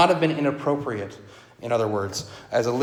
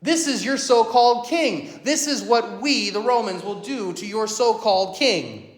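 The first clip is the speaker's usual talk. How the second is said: higher, scornful jeer at a so-called king; mocking Romans; 6 semitones higher than usual. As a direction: sneer it, leaning on so-called. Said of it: "the Romans mean it mockingly".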